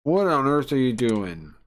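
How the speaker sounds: a moderate, acted yell. Angry man confronting the players, mildly yelled. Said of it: "He starts yelling at us".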